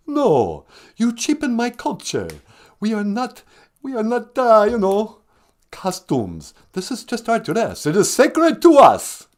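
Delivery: lightly voiced Count, offended; the Count defending his culture. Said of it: "the Count".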